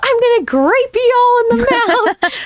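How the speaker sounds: put-on yell, high and shrill, pitched way up. Describing the man in a grape juice commercial video, retelling a shout. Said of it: "Then he shouts".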